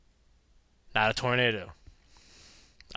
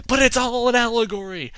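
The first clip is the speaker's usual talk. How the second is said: mock lofty artist; 8 semitones higher, 6 dB louder than usual. Painter defending his work.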